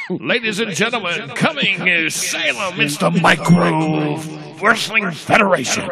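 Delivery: slow booming arena announcer echo; canyon echo. Acted. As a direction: stretch each word like it echoes. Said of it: "Echo voice when you announce this one".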